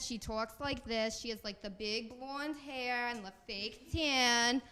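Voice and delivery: imitating a mother's New Jersey accent; slowed, drawn-out New Jersey vowels; strong New Jersey accent. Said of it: "she has the very strong accent".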